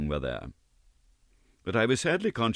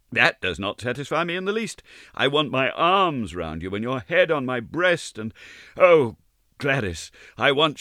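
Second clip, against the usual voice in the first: a hint of a higher young woman's voice, knowing; Gladys, lightly voiced; 7 semitones higher, 4 dB louder than usual. Gladys fending off Ned's proposal, lightly lifted voice. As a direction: gently tease him, lifted and light.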